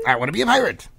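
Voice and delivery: insist, punching pirate; eager insistence. Acted. Repeats it to puzzled counselor.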